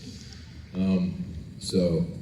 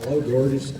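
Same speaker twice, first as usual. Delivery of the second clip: Enzo reimagined; 5 semitones higher than usual. Acted. Actor joking about his character's talk, hammed-up greeting. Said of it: "Imagine if El Enzo talked like that".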